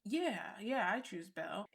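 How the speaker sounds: drawn-out rising yeah, then unsure; hesitant. Retold or imitated. Imitating Mecca answering whether he chooses Belle, hesitant. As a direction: imitate a reluctant, not confident answer. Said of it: "and he hesitates".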